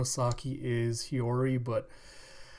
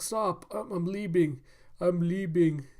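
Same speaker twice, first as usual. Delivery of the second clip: high, hammed-up pleading; pained protest; 5 semitones higher than usual. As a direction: beg them to stop the beating. Beaten old man protesting.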